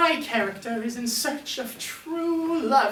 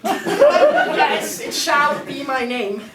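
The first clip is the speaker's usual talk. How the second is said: laughing; 3 semitones higher, 5 dB louder, much slower than usual. Acted. Grand character introduction, laughing.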